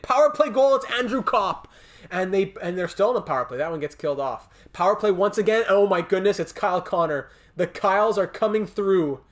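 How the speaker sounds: loud, high play-by-play call; excited goal call. Real, not acted. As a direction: shout the goals out with rising joy.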